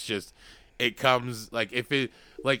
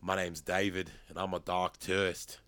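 Dark Tourist host impression; 3 semitones lower, 4 dB quieter than usual. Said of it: "You'll like the dark tourist".

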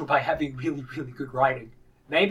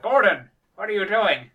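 lightly acted higher, louder callout; game character's outcry; 7 semitones higher, 5 dB louder than usual. Player blows up a guy's soup, mock exclamation.

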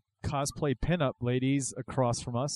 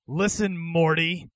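higher, insistent cartoon scientist; Rick impression; 4 semitones higher, slower than usual. Rick cutting in to set Morty straight, higher and insistent. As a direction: lean on the name impatiently. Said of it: "Rick, I mean".

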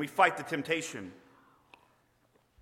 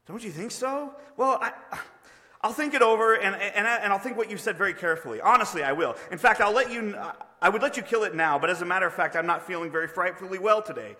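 higher, louder ghost stalling for time; nervous, evasive ghost; 5 semitones higher, 5 dB louder than usual. Acted. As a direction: babble excuses to put off the angel. Ghost character stalling the angel.

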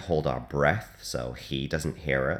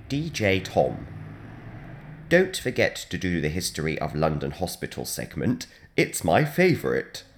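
mock British accent, lightly put on; a faint stab at a British voice. Shown as a demonstration. Radio DJ reading a colleague's note in a British accent. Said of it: "shall I try and do it in a British accent?".

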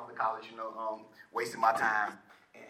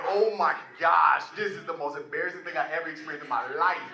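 embarrassed dismay; 2 semitones higher, 5 dB louder than usual. Retold or imitated. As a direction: stretch out the oh my gosh in horror. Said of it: "And I'm like".

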